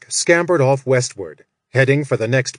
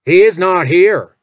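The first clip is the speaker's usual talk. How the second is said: louder, higher angry growl; 6 semitones higher, 7 dB louder than usual. Acted. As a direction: snarl it like a furious overseer. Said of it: "Jack growled".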